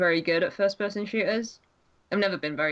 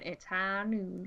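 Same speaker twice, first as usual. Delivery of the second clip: Crom as McCree; 8 dB quieter, much slower than usual. Retold or imitated. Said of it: "that's Crom going".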